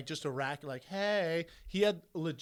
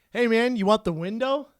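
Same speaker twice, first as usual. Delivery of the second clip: friendly offer; 7 semitones higher, 8 dB louder than usual. Retold or imitated. Friendly seatmate offers window.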